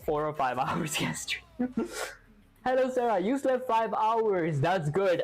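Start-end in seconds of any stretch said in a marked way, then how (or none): 2.7-4.6 announcing program output. Acted. Streamer reading the program's message to Sarah, announcing it. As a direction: read it out like a cheerful automated greeting.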